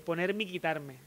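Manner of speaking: "poner Mickey Tarme" said as a name inside a phrase; run-together pun. Shown as a demonstration. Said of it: "usando el nombre de Mickey".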